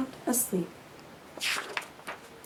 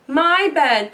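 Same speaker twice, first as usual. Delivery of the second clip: sputtered; 3 semitones higher, 4 dB louder than usual. Acted. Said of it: "Papa Bear sputtered".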